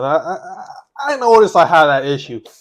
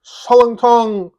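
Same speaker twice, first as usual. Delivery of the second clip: Korean mukbang intro; 2 semitones higher, much faster than usual. Pretend. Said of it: "I don't know if that last part was right".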